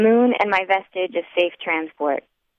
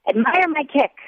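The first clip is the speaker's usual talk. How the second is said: put-on drunk demand; 6 semitones higher than usual. A narrator's reading.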